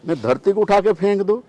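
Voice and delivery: acted-out indignant threat; angry Lakshman. Lakshman threatening to fling away the earth, angry. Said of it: "Lakshman इतनी गुस्से हो गया".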